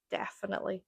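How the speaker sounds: "definitely" softly, vowel back in the throat. Shown as a demonstration. Testing own pronunciation, "definitely" back in throat. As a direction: pull the "def" of "definitely" into the throat. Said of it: "It goes back in my throat".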